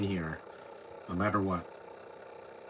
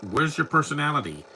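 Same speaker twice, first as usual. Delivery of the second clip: exasperated; 6 semitones higher, 4 dB louder than usual. Retold or imitated. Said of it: "I'm like".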